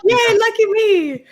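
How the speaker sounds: slow, high mock-delighted cheer through laughter. Teasing him over his partner's widowhood, laughing mock cheer. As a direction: tease with a drawn-out, laughing hooray. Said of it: "You're like".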